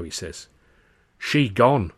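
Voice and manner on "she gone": lightly voiced rasping crone, louder; a hint of a harsh old fortune teller; short, rasped, curt old woman. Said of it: "her voice is harsh and kind of rasping".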